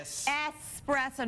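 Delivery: espresso said slow, es-PRESS-oh, no x sound; careful espresso. Shown as a demonstration. Co-host correcting the host: slow es-PRESS-oh. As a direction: spell out espresso, dwelling on each sound. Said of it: "There is no X in the word".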